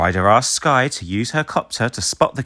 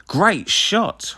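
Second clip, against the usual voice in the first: much higher cheer; praise; 11 semitones higher than usual. A narrator's reading. Ryder praising Marshall, higher and cheerful. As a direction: cheer the good shot. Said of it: "Ryder says".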